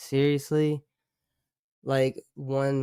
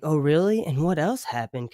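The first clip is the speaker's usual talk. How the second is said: lightly higher, intrigued gossip listener; mock eager curiosity; 4 semitones higher than usual. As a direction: play a rapt onlooker hungry for more. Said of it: "I'm sitting down with popcorn like".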